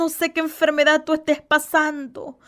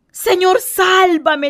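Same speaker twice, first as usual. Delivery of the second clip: higher, louder cry of Señor sálvame; shouted plea; 4 semitones higher, 5 dB louder, much slower than usual. Acted. Pedro in the waves yelling to Jesus, desperate shout. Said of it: "le grita".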